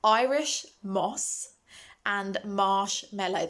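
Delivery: slow, deliberate "Irish moss" and "marshmallow"; slowly pronouncing the tricky S sounds; careful for lisp. Real, not acted. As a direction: carefully work each S through a lisp. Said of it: "pronouncing this really is not good for my lisp".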